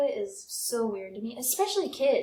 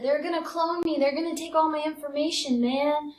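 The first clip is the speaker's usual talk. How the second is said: mock paranoid; 4 semitones higher than usual. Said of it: "I told him, I said".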